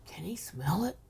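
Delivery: hushed, breathy whisper of a private thought; the narrator recalls wondering, whispered under the breath. Retold or imitated. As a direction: whisper it as if thinking to yourself. Silent thought voiced as a whisper.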